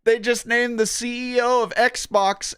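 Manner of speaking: high, excited disbelief; incredulous. Real, not acted. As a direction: read it out stunned. Reading shocking news aloud.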